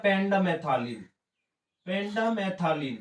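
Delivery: very slow, drawn-out term; slow dictation. Real, not acted. Teacher repeating a herbicide name for note-takers, slow dictation. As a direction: stretch out "pendimethalin" syllable by syllable.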